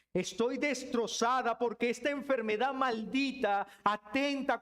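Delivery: pained plea of someone who is ill; lament. Acted. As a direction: pour out the hurt to God. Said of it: "tu lamento suena como".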